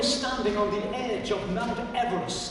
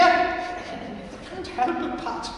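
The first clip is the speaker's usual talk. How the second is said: stifled laugh; 9 semitones higher, much slower than usual. Acted.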